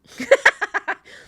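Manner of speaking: loud high-pitched laughter; real amused laugh; hearty laugh. Real, not acted. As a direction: burst out laughing at a joke. Laughs at co-speaker's joke.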